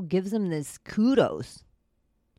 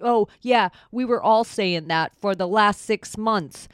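mock Andrew Schultz. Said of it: "I'm gonna mock Candace Owens about".

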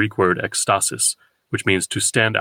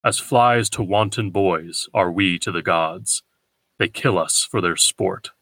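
slow, measured quotation; unhurried literary reading; verse recitation; slower than usual. Acted. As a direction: recite the verse slowly and evenly. Quotes verse aloud.

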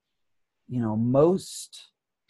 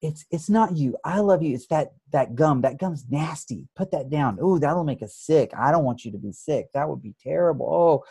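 soothing; 3 semitones higher than usual. Retold or imitated. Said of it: "she soothes me and she comforts me".

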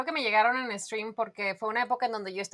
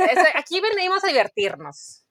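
cheerful; 6 semitones higher, 6 dB louder than usual. Real, not acted. Cheerful declaration.

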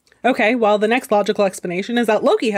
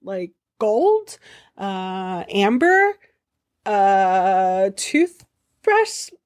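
eager bargaining; 3 semitones higher, much slower than usual. Acted. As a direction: rattle off offers like a nervous salesman. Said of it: "Loki starts bargaining".

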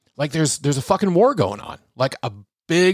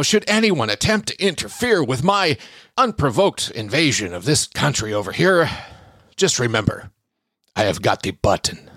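mock menacing leader. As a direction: play a pompous president issuing a warning. Mock Russian president's threat.

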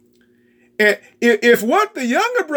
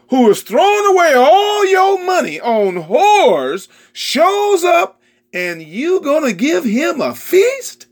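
tearful angry outburst; 7 semitones higher than usual. Acted. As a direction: wail the injustice at the father. Older son's tearful outburst.

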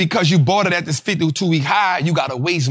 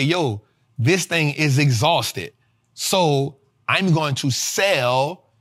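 big investor voice; much slower than usual. Retold or imitated. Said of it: "big investors are gonna say".

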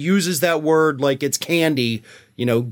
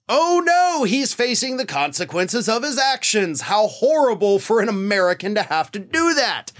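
sarcastic pity; 6 semitones higher than usual. Real, not acted.

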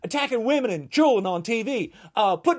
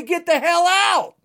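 angry command; 5 semitones higher, 4 dB louder than usual. Retold or imitated. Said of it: "get pissed as hell and say".

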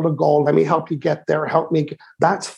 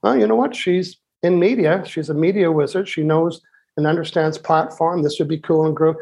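confident reply. Retold or imitated. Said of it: "You say".

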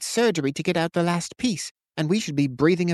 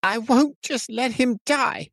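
much higher, slow, voice breaking; voice cracking; slower than usual. A narrator's reading. Tobin refusing to let Kurian die, voice cracking. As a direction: fight back tears on the words. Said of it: "Tobin's voice cracked".

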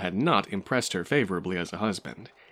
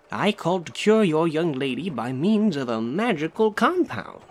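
proud announcement; 6 semitones higher than usual. A narrator's reading. Glassblower announces his cure.

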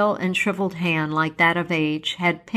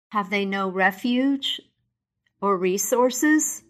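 Scrooge cries; 2 semitones higher than usual. Acted. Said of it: "cried Scrooge".

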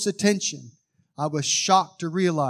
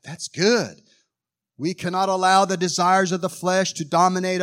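spirit voice; 4 semitones higher, 3 dB louder than usual. Retold or imitated. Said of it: "this is what I said in my spirit voice".

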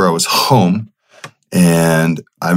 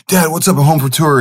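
much higher, bright eager hello to dad; excited greeting; 9 semitones higher than usual. Retold or imitated. Son greeting his dad on the phone, high and eager. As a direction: pitch it way up like a kid calling home. Voicing himself calling dad.

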